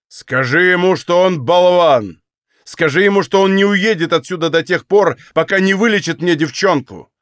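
loud, high furious commands; old master shouts orders about the doctor; old man shouting. Acted. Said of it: "закричал старик".

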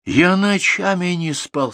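high, drawn-out aggrieved shout. A narrator's reading. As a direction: cry out the grievance slowly. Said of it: "снова закричал Артур".

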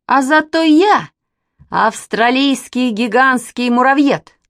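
громко и высоко, медленно; гордо хвастается; хвастливо. A narrator's reading. (мальчишка громко хвастается)

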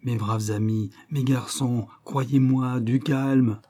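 a lightly voiced, steady reassurance; soothing. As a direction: keep soothing them, gently insistent. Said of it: "répétant toujours". (le détective répète doucement pour apaiser)

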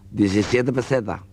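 slow toothless mumble. Acted. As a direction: say it slowly as if your dentures are out. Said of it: "se quita la dentadura".

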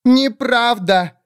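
squealing wail. Acted. Telorast wailing a protest at the witch, high squeal. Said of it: "завопила Телораст".

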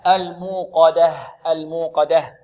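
slow "الموقدة" ending in an audible ه; clear final h. Shown as a demonstration. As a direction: finish "الموقدة" on a distinct breath of h. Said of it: "لابد من إيضاح الهاء". (إيضاح الهاء في آخر "الموقدة")

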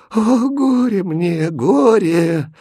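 slow, high, wailing lament; mother wailing in despair. A narrator's reading.

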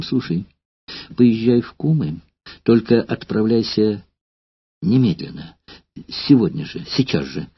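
halting, breaking voice; words catching, urgent; broken voice. Acted. Courtesan sending old actor to Kumy, voice breaking. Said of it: "сказала прерывающимся голосом".

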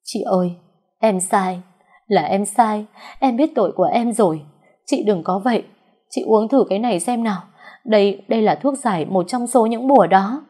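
put-on pleading girl, mildly crying; tearful begging. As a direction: beg the mistress, a touch of tears. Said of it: "khóc lóc van xin".

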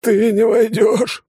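high, loud and slow, rasped in fear; hoarse frightened rasp. A narrator's reading. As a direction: croak out a desperate ban. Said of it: "прохрипел он".

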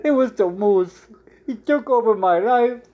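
slightly high pleading; frantic man pleading with the bartender; desperate man. Acted. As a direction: insist it was the moose.

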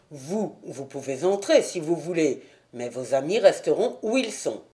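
lightly voiced unbending gatekeeper; understated surly servant; stubborn doorman. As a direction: refuse them entry, holding to orders. Voices doorman refusing entry.

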